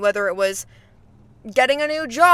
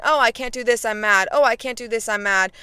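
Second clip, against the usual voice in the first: mock complaining; faster than usual. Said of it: "me complaining about something".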